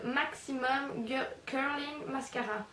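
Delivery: slow English product name in a heavy French accent. Real, not acted. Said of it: "Excusez mon accent".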